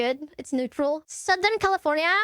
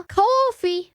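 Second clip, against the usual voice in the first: New York accent, "Coffee" a little higher; 4 semitones higher, 4 dB louder than usual. Shown as a demonstration. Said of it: "This is New York accent".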